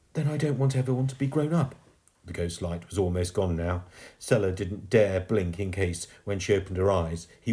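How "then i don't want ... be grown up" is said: put-on high, upset child's voice; heartbroken. A narrator's reading. Girl losing her ghost friend, heartbroken. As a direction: protest from a breaking heart. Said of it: "The girl's heart was breaking".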